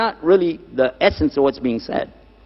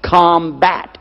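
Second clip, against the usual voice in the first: "Combat" repeated firmly, standing alone; "Combat" said deliberately as a key term; stress on combat. Real, not acted. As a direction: drive home the word "Combat". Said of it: "underline this word".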